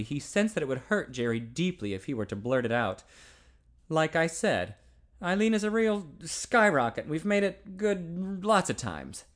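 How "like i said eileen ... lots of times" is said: swaggering brag, slowing to a drawl at the end; a young man bragging to his friend about his girl; boasting. Acted. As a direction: talk her up like a locker-room boast. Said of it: "assumed the boasting tone of voice".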